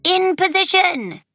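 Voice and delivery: high, loud command; shout. A narrator's reading. Jake orders his sister into hiding, shouting high. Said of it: "Jake shouts".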